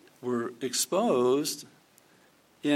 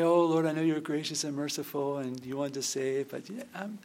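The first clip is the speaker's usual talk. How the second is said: timid mock prayer. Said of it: "not pray".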